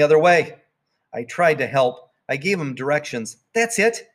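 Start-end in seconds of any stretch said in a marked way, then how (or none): 3.5-4.1 calling out. Acted. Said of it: "I called".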